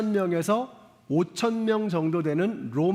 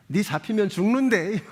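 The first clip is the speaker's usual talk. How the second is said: Gyeongsang growl, half joking; Gyeongsang dialect; 3 semitones higher than usual. Retold or imitated. Pastor jokes how a Gyeongsang man chases his wife, in a gruff Gyeongsang accent. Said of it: "우리 경상도 분들이".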